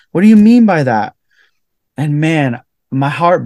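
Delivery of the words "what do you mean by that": puzzled question. Retold or imitated. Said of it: "we're like".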